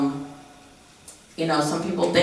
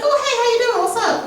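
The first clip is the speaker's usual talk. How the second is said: mock creepy guy; faster than usual. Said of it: "And he's like".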